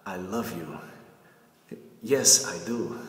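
assured love declaration, then affirmed. Shown as a demonstration. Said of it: "this has a little bit more of confidence".

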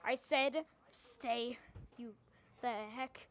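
loud nervous warning; scared shout. Real, not acted. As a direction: yell at it to back off. Warding off Funtime Freddy.

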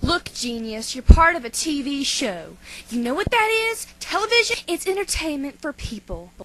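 overacted anime dub. Cat lectures dog, getting heated.

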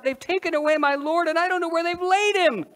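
blurted high and loud, near tears; distraught outburst. Acted. Mary pleads with the angels about her missing Lord, distraught and loud. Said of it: "And I blurted out".

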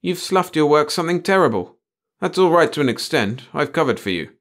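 high, loud desperate appeal. A narrator's reading. Chief appealing to his two employees, desperate. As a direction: plead your case, pitch pushed up. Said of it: "Then desperately".

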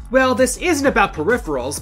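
usual speaking voice

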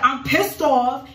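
hammed-up devil griping that he's mad; imitating the devil. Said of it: "But he was like".

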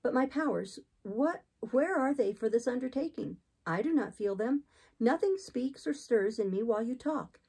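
hint of a troubled heroine; doubting Jane. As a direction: question your own fitness. Voices Jane protesting.

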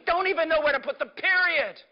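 preacher crying out to the congregation; fervent preaching shout. Real, not acted. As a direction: build to a fervent shouting climax. Preacher building to climax.

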